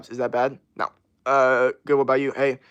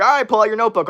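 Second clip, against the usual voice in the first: perky teacher calling the class, higher and louder; 9 semitones higher, 7 dB louder, faster than usual. Retold or imitated. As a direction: chirp it like an eager teacher. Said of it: "the teacher's like".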